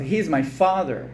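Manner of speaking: "He's my father" slowly and separately; measured words for learners; slow model reading. Shown as a demonstration. Teacher to students repeating the answer, slow model.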